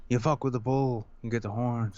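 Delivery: lightly voiced film-star quote; Nicolas Cage. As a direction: drop a movie catchphrase as a mild imitation. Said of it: "My best Nicolas Cage voice".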